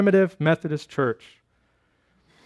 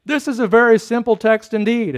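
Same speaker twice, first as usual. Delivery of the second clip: lightly voiced chapel preacher, pitched up; lay preacher; 4 semitones higher than usual. Simple preacher opening his sermon to a small chapel, lightly voiced. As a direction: start preaching with a hint of pulpit lift. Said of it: "And so the preacher began thus".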